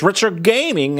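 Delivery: the streamer's alert, mock Australian. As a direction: imitate the Aussie alert voice. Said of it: "she just comes out and says".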